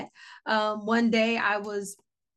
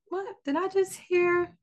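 higher, startled question; startled disbelief; 9 semitones higher than usual. Retold or imitated. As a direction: caught off guard, asking herself in disbelief. Startled by hearing a voice.

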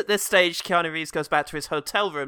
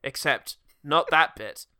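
hopeless spy; 3 semitones lower than usual. Retold or imitated. Keanu introduces himself as Sergey, a hopeless spy.

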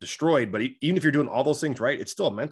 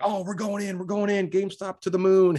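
much higher, hammed-up hype, louder at the end; mock hype; 9 semitones higher, 4 dB louder than usual. Crowd of hyped buyers at the market top, in a much higher hammed-up cheer. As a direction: cheer on the crowd's reckless buying. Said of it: "Everybody's like".

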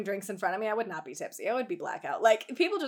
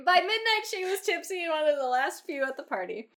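dramatic re-read; 5 semitones higher than usual. A narrator's reading. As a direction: read it again with big drama. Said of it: "re-read of the same line".

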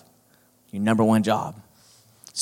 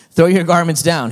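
louder, higher cross command; 5 semitones higher, 6 dB louder than usual. A narrator's reading. Donkey ordering the townspeople, crossly. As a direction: bark it at the crowd like an offended celebrity. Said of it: "he said crossly".

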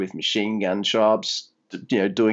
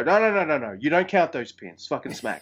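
stern referee scolding; 4 semitones higher than usual. Retold or imitated. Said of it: "by the woodshed and go".

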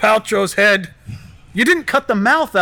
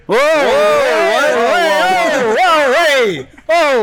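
excited; 6 semitones higher, much slower than usual. Real, not acted. Reacts to anti-goop.

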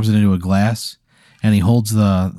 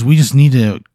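a touch higher and louder; a friendly creature voice, lightly played; lightly voiced snooze monster; 4 semitones higher, 4 dB louder than usual. Snooze monster consoling the player, lightly voiced.

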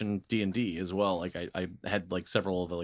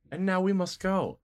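very nice. Acted. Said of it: "I'm being very nice".

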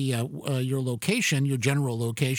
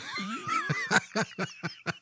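high burst of laughter; amused cackle; 7 dB quieter than usual. Real, not acted. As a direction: break up laughing at the bit. Laughs at own boomy voice.

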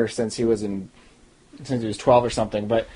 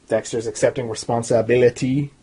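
slight, accidental Jamaican lilt; Jamaican accent; 2 semitones lower than usual. Real, not acted. Reviewer slips on a verdict about Dexter, faint Jamaican accent. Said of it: "I said it like a Jamaican guy".

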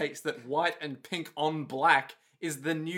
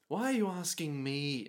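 first try at the character voice, missed; a failed stab at the voice; wrong voice attempt; 7 dB quieter than usual. Shown as a demonstration. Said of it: "No, that's not his voice".

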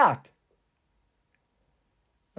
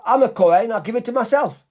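greedy kohen; 4 semitones higher than usual. Acted. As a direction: play the self-satisfied kohen keeping the loot. Greedy kohen thief talking to himself.

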